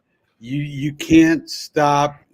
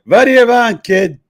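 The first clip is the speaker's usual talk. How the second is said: put-on loud, high old Jewish man accent; yiddish accent; 9 semitones higher, 8 dB louder than usual. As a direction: bark it like a cranky old Jewish barber. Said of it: "he plays an old white Jewish guy".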